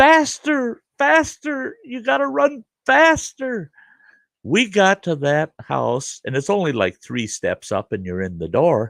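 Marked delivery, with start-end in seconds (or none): 0.0-3.7 acted, very high, stretched, urgent drawn-out scream. Retelling a grandmother screaming at fleeing kids: imitating grandmother screaming. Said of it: "my grandmother's just screaming at us".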